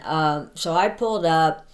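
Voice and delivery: usual speaking voice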